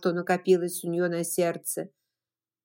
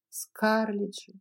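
ordinary delivery, nothing marked

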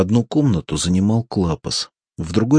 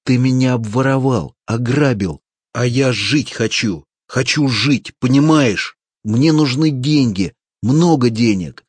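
higher, louder, pleading yell; desperate shout; 5 semitones higher, 5 dB louder than usual. A narrator's reading. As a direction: shout out your hunger for money. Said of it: "кричал, отряхиваясь".

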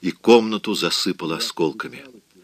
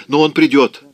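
relieved exclaim; 5 semitones higher, 6 dB louder than usual. Acted. Relief, he will come.

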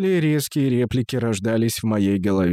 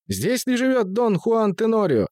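high squeaky voice; 9 semitones higher than usual. Acted. Deaf servant asks the question.

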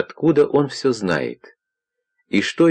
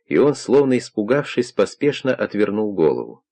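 ordinary delivery, nothing marked

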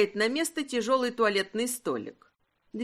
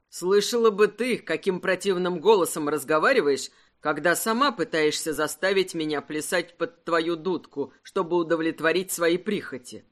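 a hint of a mocking husband, lower; lightly voiced husband, lower and teasing; 5 semitones lower than usual. Husband teasing wife about her tone, lightly lower voice. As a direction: tease her back, low and easy.

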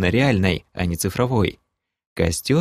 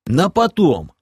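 firm, loud and higher, flat refusal; categorical; 8 semitones higher, 4 dB louder, slower than usual. Acted. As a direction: shut it down firmly. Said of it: "категорично ответил полуорк".

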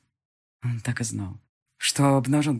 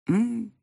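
sultry hum; 7 semitones higher than usual. A narrator's reading. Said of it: "томно протянула я".

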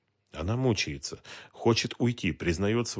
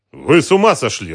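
loud, high, exasperated snap; furious at her self-blame; angry; 6 semitones higher, 13 dB louder than usual. A narrator's reading. Detective angry at the woman's confession, loud angry retort. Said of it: "разозлился Дронго".

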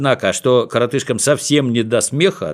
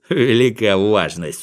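smirking; slower than usual. Acted. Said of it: "с усмешкой ответил Винтик".

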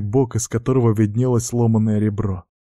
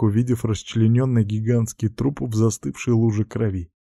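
plain reading voice

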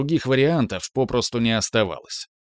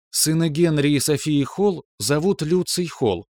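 higher, clipped monotone computer; monotone machine; 5 semitones higher than usual. Acted. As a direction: rap it out like a machine. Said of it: "монотонно чеканила система".

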